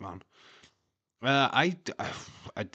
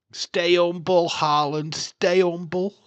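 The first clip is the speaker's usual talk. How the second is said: mocking taunt; 8 semitones higher, 10 dB louder, slower than usual. Taunting a rival striker.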